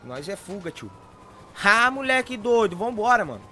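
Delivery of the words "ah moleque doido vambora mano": excited shout. Real, not acted. Excited about escape.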